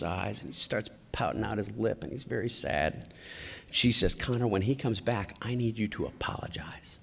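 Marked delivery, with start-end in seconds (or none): 4.1-7.0 softer, fading into a whisper; whispered instruction. Retold or imitated. Wife whispering to her son at the pump. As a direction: hush him quickly before the man returns. Mother hushes son before man returns.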